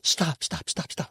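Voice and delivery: mock producer stopping the take; imitating the producer halting his silent training; producer cutting in. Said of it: "this, like, gay producer guy's like".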